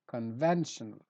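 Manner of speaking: "conventional" leaning on "ven"; stress on VEN. Shown as a demonstration. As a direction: hit the second syllable of "conventional". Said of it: "so I stress ven".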